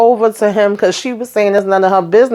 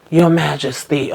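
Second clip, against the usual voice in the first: mock deference; 4 semitones lower, 3 dB quieter than usual. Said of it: "did the little bow down".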